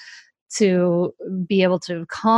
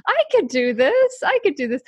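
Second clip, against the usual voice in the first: naive confidence; 7 semitones higher than usual. Retold or imitated. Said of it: "'cause I was like".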